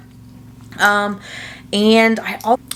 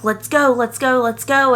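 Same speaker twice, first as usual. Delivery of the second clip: excited cheer; 5 semitones higher than usual. Retold or imitated. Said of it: "you're so excited and you're like".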